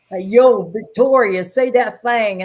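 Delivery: lightly voiced mobster calling out loudly. Mobster at a parking lot asking Victoria for her line, hint of mobster voice. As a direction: call over like a friendly mob guy. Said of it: "he was mobster the whole way".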